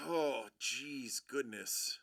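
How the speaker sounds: whispered, low, under the breath; dismayed whisper. Real, not acted. Host reacting to a rival pick, dismayed whisper.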